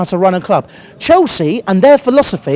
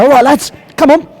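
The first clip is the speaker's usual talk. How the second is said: mock opposing captain; 3 semitones higher, faster than usual. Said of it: "Get back and go".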